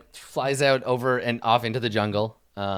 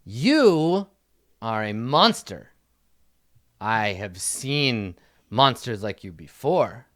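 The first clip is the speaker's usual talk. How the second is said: put-on defiant kid prince. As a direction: play a kid solemnly confronting a monster.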